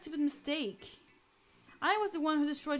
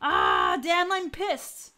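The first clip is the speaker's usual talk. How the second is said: angry grumble; 6 dB louder, much slower than usual. Acted. Captain grumbling in anger.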